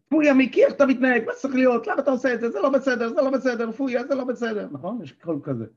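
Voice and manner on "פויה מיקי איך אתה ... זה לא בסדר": הקול הביקורתי הנוזף. Shown as a demonstration. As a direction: scold yourself like a disgusted parent. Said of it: "יש את הקול הזה שאומר". (קול ביקורתי נוזף, גבוה וחזק)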